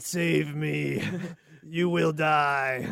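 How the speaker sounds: slow, fading robot voice; dying robot voice. Pretend. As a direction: drag it out like a failing machine. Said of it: "Like a dying robot".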